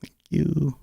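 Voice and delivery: soft breathy whisper of thanks. Real, not acted.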